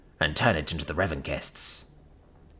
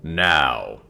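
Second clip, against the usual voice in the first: put-on mid-Atlantic accent; 2 semitones lower, 6 dB louder than usual. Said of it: "In an affected mid-Atlantic accent".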